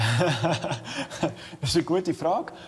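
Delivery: laughing through each word, very slow. Asked whether he wants to take over Switzerland, answering; laughing.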